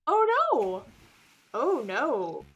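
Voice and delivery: panicked cry. Acted. Lawyer ambushed in the dark, cries out in panic. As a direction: cry out as the blow lands. Attacked, crying out in shock.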